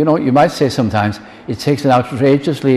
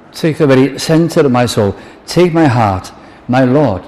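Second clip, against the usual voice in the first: raised, declaimed plea to the Lord; fervent devotional recitation; 3 semitones higher, 4 dB louder than usual. Acted. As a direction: offer it up as a heartfelt prayer. Reciting hymn lines as prayer.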